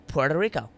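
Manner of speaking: Puerto Rico said PWEHR-toh REE-koh; Spanish pronunciation. Shown as a demonstration. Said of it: "the authentic pronunciation of individual words".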